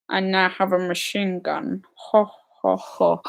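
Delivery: lightly voiced film villain, quiet and deliberate; a hint of a villain, spacing out each ho; Alan Rickman. Streamer doing a best impression of a Die Hard line, lightly imitated villain. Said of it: "That was my best Alan Rickman impression".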